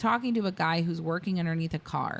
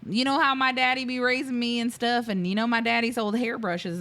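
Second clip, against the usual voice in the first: put-on Southern accent; 4 semitones higher than usual. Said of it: "the thickest Southern accent ever".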